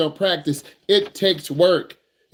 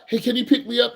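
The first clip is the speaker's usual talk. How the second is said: higher, casual ask for a favor; friend asking for a ride; 6 semitones higher than usual. Retold or imitated. Teen friend casually asks the driver for a ride. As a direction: voice the friend who wants a lift.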